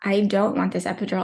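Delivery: normal talking voice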